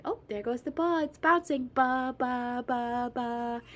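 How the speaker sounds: bubbly, playing ball with a toddler; animated parent voice. Shown as a demonstration. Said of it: "just to be animated".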